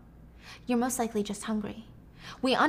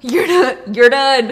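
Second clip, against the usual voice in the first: furious; 13 dB louder, slower than usual. Retold or imitated. Sarah keeps raging.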